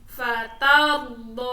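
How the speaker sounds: "fatardo" slow and loud, long final vowel; waqf reading. Shown as a demonstration. Teacher showing pupils the stop, "fatardo" with long ending. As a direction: hold the end of "fatardo" for one beat. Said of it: "wakof dibaca panjang satu".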